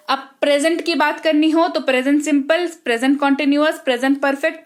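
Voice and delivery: tense names rattled off quickly, x1.4 in places; quick teacher's drill listing the tenses; rapid-fire recital. Shown as a demonstration. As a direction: reel off the list at speed like a drill. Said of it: "जितनी तेजी से मैंने बोला है".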